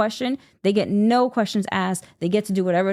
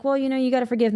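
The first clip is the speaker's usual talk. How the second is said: higher-pitched mock advice; mocking imitation; 5 semitones higher, faster than usual. Blind mother mimicking people urging forgiveness, mocking. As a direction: parrot the forgivers dismissively.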